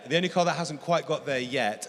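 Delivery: "yet" pressed home with a slight lift; stress on yet. Real, not acted. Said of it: "and I stress the word yet".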